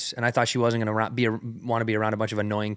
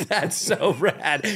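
mock amazement; 6 semitones higher, much slower than usual. Mock enthusiasm about Five Guys.

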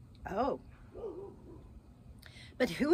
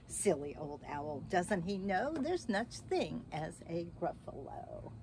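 quiet aside; 3 semitones lower, 6 dB quieter than usual. Real, not acted. Teacher's aside to children.

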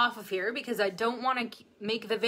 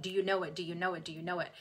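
rapid quiz; 4 semitones lower, 7 dB quieter, faster than usual. Shown as a demonstration. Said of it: "I'm just gonna do rapid".

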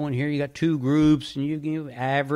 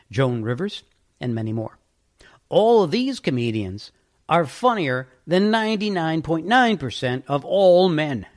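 quoted reading; 2 semitones higher, 3 dB louder than usual. Shown as a demonstration. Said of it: "Continuing the quote".

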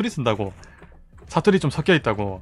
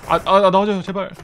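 "아, 아, 아, 나와줘요" pleaded higher and louder; urgent begging for the enemy to come out; anxious pleading; 7 semitones higher, 5 dB louder than usual. Real, not acted. Pleading during game. (높고 크게 애원하듯)

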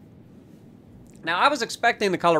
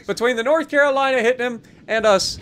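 laughing; 5 semitones higher, 3 dB louder than usual. Real, not acted. Still laughing after the kill.

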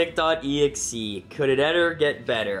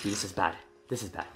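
low, soft worried murmur; sinking, much softer and lower; hushed dread; 8 semitones lower, 10 dB quieter, faster than usual. Real, not acted. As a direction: say it quietly, full of foreboding. Dread after the scare.

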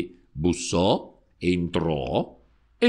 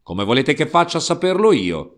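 louder, higher angry outburst; shouting; 3 semitones higher, 3 dB louder than usual. Acted. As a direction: throw it back at the priest. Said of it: "gridò Peppone".

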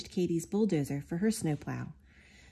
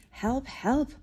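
high, strained double call; calling for help; 8 semitones higher than usual. Acted. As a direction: call out as if stuck in the snow. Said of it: "called out the telephone company".

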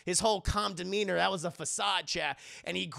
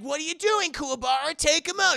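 high, loud teammate's yell; urgent cheering-on; 8 semitones higher, 6 dB louder than usual. Retold or imitated. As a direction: shout him into action. Teammates urge him to attack.

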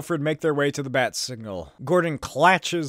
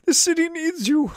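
higher, pleading butler voice; Alfred voice; 13 semitones higher than usual. Acted. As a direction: beg your master gently, voice raised high.

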